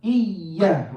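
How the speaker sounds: "Iyya" with the y pulled back and held; slingshot shadda. Shown as a demonstration. Teacher explaining the slingshot to students, "Iyya" with held y. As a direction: lean into the double y of "Iyya". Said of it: "You're pulling back".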